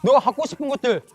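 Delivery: loud, high taunting voice of the world; 유혹하는 세상의 목소리. Acted. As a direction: challenge and scoff, building to loud, high-pitched denial. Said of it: "세상은 우리에게 이제 이렇게 막 속삭이기 시작해요". (크고 높게 비아냥대며 따지는 세상의 목소리)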